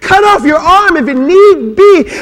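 high, loud, slow cry of flee; impassioned preaching shout. Acted. Pastor crying Paul's warning to the congregation, loud and high. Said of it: "Paul says".

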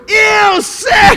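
put-on high, loud kid squeal; grossed-out little boys. Little boys seeing coach's bleeding girlfriend, mock disgusted squeal. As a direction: imitate boys shrieking in disgust. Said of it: "All the little boys like".

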